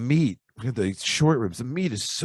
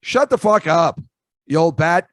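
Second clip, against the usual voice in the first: mock angry retort; 5 semitones higher, 4 dB louder, slower than usual. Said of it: "And I'm like".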